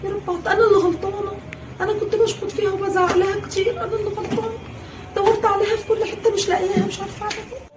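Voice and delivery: high, broken, fading self-blame; weeping regret; tearful remorse. Acted. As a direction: sob it out, fading to nothing. Mother blames herself, crying.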